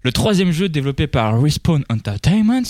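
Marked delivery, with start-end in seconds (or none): 1.4-2.6 Respawn Entertainment said in a careful, slow English accent. Real, not acted. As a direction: pronounce the studio name like a native English speaker. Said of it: "Très bel accent". (accent anglais appliqué)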